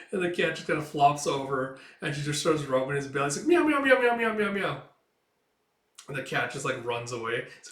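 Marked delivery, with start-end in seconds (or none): 3.5-4.8 high, loud run of meows sliding down; playful meowing. Retold or imitated. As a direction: meow at a cat while rubbing its belly. Girl meows while rubbing cat.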